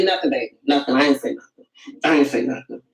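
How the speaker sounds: low, mock-innocent backpedal, laughing by the end; innocent denial. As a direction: cover your tracks, babe. Covering up after the slip.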